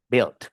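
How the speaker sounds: Built said "bilt"; bare I sound. Shown as a demonstration. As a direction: silent U in Built. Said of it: "con I pelada".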